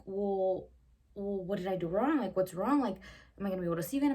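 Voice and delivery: imitating the clingy date, loud and whiny. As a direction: pester her like a needy date. Date whining, pestering her.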